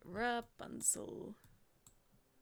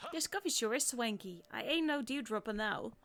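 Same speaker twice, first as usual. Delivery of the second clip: put-on old-timey slang talk. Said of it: "Why are you speaking like Oswald?".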